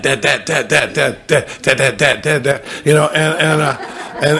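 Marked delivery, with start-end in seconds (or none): 0.0-2.6 put-on needy child calling.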